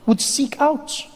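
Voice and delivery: slow, measured storyteller with long pauses; mock-historical narration. Comedian recounting history after colonisation, solemn narration.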